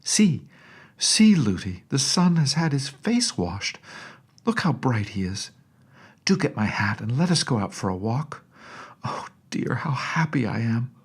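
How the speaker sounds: high, bright cry of delight; a little girl thrilled to see the sun; excited child. A narrator's reading. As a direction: princess crying out with joy at the sunshine. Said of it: "Irene clapped her hands, crying".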